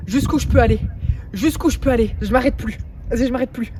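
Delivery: loud giddy bragging; pumped and loud; euphoric. Real, not acted. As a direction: hype yourself up. Euphoric after the record.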